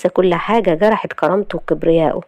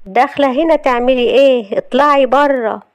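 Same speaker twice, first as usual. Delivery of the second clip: higher-pitched, hostile challenge; angry dismissal; 6 semitones higher, 3 dB louder than usual. Acted. Wife confronting an unwelcome visitor, angry. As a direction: order her out, dragging the last words.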